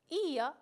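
ia with a drawn-out, stressed i. Shown as a demonstration. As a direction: hold the i in ia. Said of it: "la I lleva acento también".

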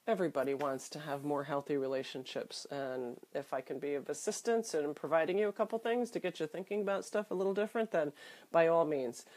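blocked-nose nasal voice. Real, not acted. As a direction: talk through a stuffy cold nose. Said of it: "tolerating my nasally voice".

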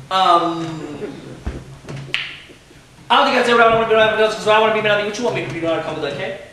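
put-on a ten-year-old throwing shade at her teacher; sassy kid. Ten-year-old girl sassing her teacher, low and soft.

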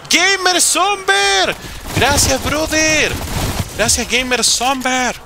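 high, slow, stretched-out thanks; drawn-out shout-out. Real, not acted. Streamer thanking a supporter, drawn-out high shout-out. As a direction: sing out the name, holding each syllable.

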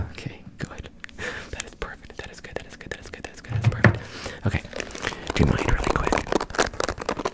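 rapid whispered counting triggers; quick random whispered numbers; fast aggressive asmr. Acted.

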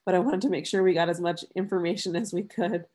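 stuffy, congested nose; talking through a blocked nose; nasal voice. Real, not acted. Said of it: "bearing with my nasally voice".

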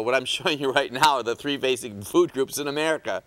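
lightly sarcastic, with a small laugh; mock-serious announcement, amused. Real, not acted. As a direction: say it tongue in cheek. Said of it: "I'm being sarcastic".

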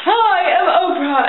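lightly put-on grand announcer-like reveal; Oprah. Oprah revealing who she is, grand imitation. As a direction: draw out the opening and announce yourself. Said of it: "And she's like".

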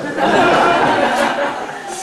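big, high burst of laughter; loud laugh. Real, not acted. Se ríe de su propia historia. (carcajada fuerte)

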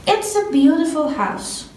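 slow, deliberate model sentence; slow example reading. Shown as a demonstration. Teacher pointing at the apostrophe, reading slowly. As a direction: lay the sentence out slowly for the class. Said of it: "اگر دقت بکنید".

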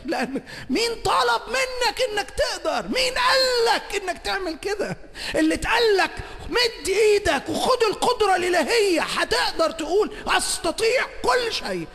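a preacher thundering before the congregation; full-force preaching. Acted. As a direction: preach it out at the top of your voice. Preacher shouts the challenge.

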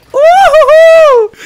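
long, high, very loud whoop; excited whoop. Real, not acted. Gamer celebrating his play, high excited whoop. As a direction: let out a drawn-out victory whoop.

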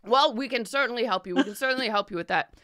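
fast eager assurance; eager merchant. Acted. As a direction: rush to reassure them.

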